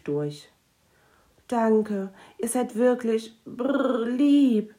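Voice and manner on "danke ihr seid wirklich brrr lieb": grumbly gnome thanks. Acted.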